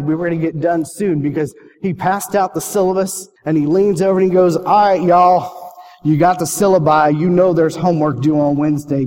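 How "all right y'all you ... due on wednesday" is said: slow, loud Southern professor drawl, leaning in; a loud, slow Southern drawl with a long "y'all". Retold or imitated. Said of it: "He had a great Southern drawl".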